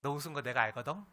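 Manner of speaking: knowing tease with a rising end; gentle, smiling. Acted. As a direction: let them know kindly, with a smile. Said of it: "편한 느낌으로 미소 지으면서". (미소 지으며 다정하게 놀리듯)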